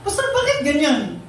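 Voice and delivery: high mock-crying question; retold tearful plea. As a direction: imitate a dad asking why through tears. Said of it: "Habang umiyak".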